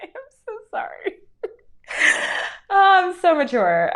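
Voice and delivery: high, breathless laughing apology; giggling fit. Real, not acted. Apologising to stream viewers mid giggle fit. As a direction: laugh so hard you can barely talk.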